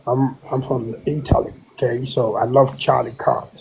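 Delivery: a fake accent, held steady; trolling the room in a put-on voice. Caller trolling the room about Charlie Kirk, put-on accent. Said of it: "not with that troll voice".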